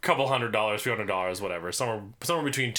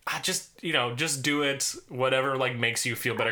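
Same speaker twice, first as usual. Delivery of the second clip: light impression of his mom; breezy easygoing mom voice; man doing a woman's voice; 3 semitones higher than usual. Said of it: "I love your impression of your mom so much".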